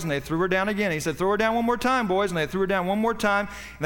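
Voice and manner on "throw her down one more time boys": king bellowing to his men from the wall; calling out an order. Acted. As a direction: shout the order down to the men below.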